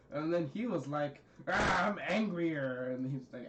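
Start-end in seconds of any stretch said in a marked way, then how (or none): 1.5-2.9 slow, drawn-out mock anger; mock angrier growl. Trying to out-anger his brother, mock anger. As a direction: stretch it out in pretend anger. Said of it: "actually, like, angry".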